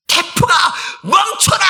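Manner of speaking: very high, loud yell at the storm; shouted command. Acted. Preacher playing someone ordering a typhoon to stop, high shout. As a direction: bellow an order into the wind at full pitch.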